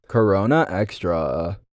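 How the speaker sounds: stretched final syllables; countdown video voice. Retold or imitated. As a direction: drag out the end of each word. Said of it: "lengthens the last syllable of every word".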